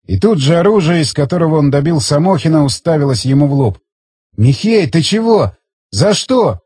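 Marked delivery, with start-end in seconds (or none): 4.4-6.6 higher-pitched, mildly scared questioning; a touch of fright, voice lifted; frightened. A narrator's reading. Frightened man questions the comrade aiming at him, mildly scared. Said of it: "пробормотал испуганный Борщев".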